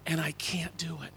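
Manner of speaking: breathy whisper, nearly voiceless; a whispered confession to God; whispered despair. Retold or imitated. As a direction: let the words fall to a hush of defeat. Retold prayer in despair.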